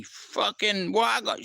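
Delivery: high, slow mock scream; retold scream. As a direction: shriek it out, drawing the words long. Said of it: "started screaming at me".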